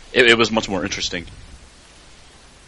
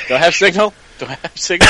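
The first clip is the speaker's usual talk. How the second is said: higher, louder, a bit frantic; searching for signal; 6 semitones higher, 4 dB louder than usual. Retold or imitated. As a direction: play someone hunting for a signal. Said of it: "I just picture someone walking around in the woods, like, holding their phone up".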